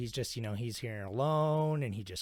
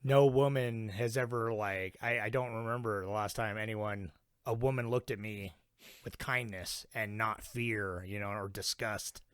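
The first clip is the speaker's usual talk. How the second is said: mild crying quote; 3 semitones lower, slower than usual. Retold or imitated. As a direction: imitate him choking up, gently and slowly. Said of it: "he starts crying and he's like".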